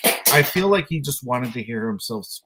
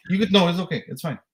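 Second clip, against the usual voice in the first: ordinary talk, nothing marked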